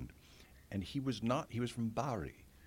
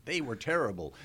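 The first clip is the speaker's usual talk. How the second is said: hammed-up actor; 6 semitones higher, 7 dB louder than usual. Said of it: "you know".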